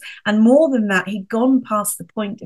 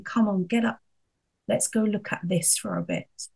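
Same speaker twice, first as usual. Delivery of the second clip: gentle Lord; 5 dB quieter than usual. Retold or imitated. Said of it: "I see the Lord taking my hand and saying".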